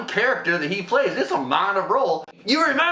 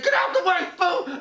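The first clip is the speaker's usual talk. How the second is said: very high, shouted; mock heroic shout; action-hero yell; 13 semitones higher than usual. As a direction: bellow it mid-shootout. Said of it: "he said".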